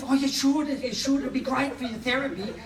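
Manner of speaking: high-pitched stereotyped gay therapist impression; hammed-up gay stereotype, lifted high; stereotypical gay man. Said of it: "I'd just do a stereotypical gay one".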